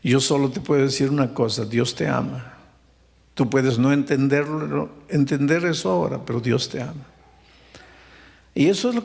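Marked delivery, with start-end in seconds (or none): 0.0-7.1 gentle pastor. Retold or imitated. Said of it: "Le digo".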